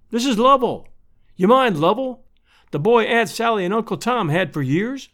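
high-pitched, hearty country welcome; delighted neighbour woman. Acted. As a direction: exclaim in recognition, voice pitched right up. Missus Stetson welcomes Lovell.

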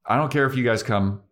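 stamp it out, no one stops her; mock-defiant Buffy voice; Buffy insisting. Buffy insists she's going.

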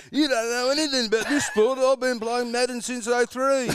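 high, mocking know-it-all whine. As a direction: send up the smug armchair expert. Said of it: "They're like".

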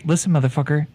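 blustering Irish con man; Irish accent. Acted. Con man insisting to the bartender, in an Irish accent. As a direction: lay on the Irish brogue, talking him down.

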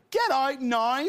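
Belfast accent with a high lilt at the end; Irish accent. Shown as a demonstration. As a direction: demonstrate Irish, soaring up on "So it is".

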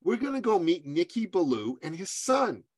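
high, softened imitation of a doting parent; mother to child. Mother answering her little son, high tender voice. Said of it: "he said, "Oh, sweetheart".

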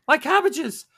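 high, loud wail of the cabbage merchant; cabbage man wail. Acted. The street vendor wails as the runners knock into his cabbages. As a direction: cry out over the ruined cabbages.

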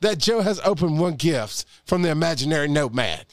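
high, booming mock preacher. Podcast host mock-preaching to his co-host in a preacher voice. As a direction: preach it like a hammed-up pastor from the pulpit. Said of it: "I'm gonna use my preacher voice".

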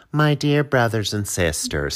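slow, sweet conference speaker; general conference woman voice. Retold or imitated. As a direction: talk like a church conference speaker. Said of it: "They all sound exact the fucklingly the same".

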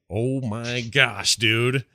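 ordinary talk, nothing marked

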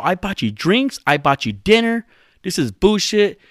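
high-pitched indignant imitation; mad. Podcaster imitating his rejected friend's complaint, mad. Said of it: "He gets mad".

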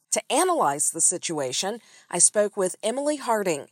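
measured, polished intro read with lively pitch swings; scripted podcast host narration. Acted. Host introducing the episode and guests to listeners, scripted narration.

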